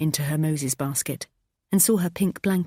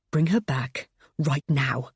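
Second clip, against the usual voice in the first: gritted teeth; slower than usual. Acted. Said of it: "I said between gritted teeth".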